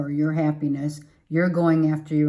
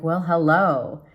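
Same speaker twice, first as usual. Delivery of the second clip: flirty well hello; 4 dB louder than usual. Pretend. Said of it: "I don't know why I have to say it like that".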